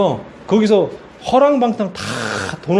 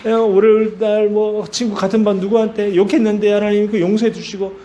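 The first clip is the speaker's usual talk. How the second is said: evenly pitched, droning prayer; mock confession prayer; 3 semitones higher than usual. Preacher mimics churchgoer confessing cursing a friend, mock prayer. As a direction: pray a routine, rambling confession.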